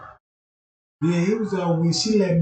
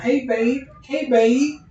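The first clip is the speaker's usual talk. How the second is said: higher sing-song hey babe; creepy demon call; 7 semitones higher, 4 dB louder, slower than usual. Retold or imitated. The demon chasing him calls out sweetly. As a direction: lure him in like a seductive demon. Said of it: "talking about".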